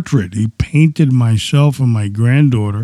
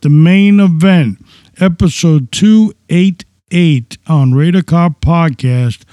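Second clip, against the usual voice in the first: ringmaster; 4 semitones higher than usual. Acted. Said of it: "the clown show is about to start".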